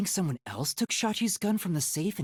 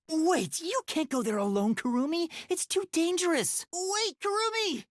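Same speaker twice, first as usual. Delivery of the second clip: high, urgent calls after her; high, urgent calling after a friend; 13 semitones higher than usual. Acted. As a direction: call her back before she goes. Calling after Kurumi leaving.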